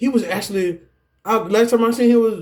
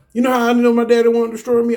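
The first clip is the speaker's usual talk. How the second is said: faster, louder, higher, all in a rush; worked-up rush; 5 semitones higher, 3 dB louder, faster than usual. Real, not acted. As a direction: fire the question out fast and heated. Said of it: "I don't know why I'm talking like this".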